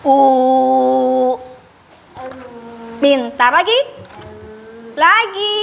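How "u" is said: long held U, lower, lips forward; rounded U. Shown as a demonstration. The speaker models U for a child to copy. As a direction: hold a long U with lips pushed out. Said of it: "Lihat Ibu Betty".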